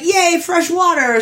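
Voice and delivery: high, drawn-out "yay"; mock gleeful cheer. Merman allowed to stay in the tub, gleeful cheer.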